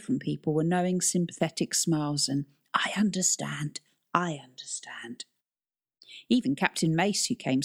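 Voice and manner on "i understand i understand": whispered. Acted. Knowing sympathetic people whispering.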